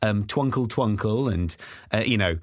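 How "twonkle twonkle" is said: "Twinkle Twinkle" as slow French "twonkle"; lightly put-on French vowels; French accent. Child asking for different versions, mock French accent. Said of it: "French thing".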